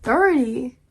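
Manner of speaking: stunned at thirty; shocked. Real, not acted. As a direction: react in disbelief. Shocked reaction to age.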